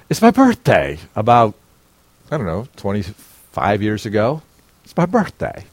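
a happy man's big day; excited buildup. Retold or imitated. Pastor builds up birthday story.

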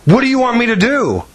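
high mock voice of the annoyed mother; mimicking the mother. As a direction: squeak it out like the mother who doesn't care. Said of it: "And she says".

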